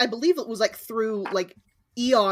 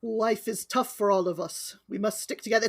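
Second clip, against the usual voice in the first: put-on accidental Irish accent; 5 dB quieter than usual. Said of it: "It's Irish again!".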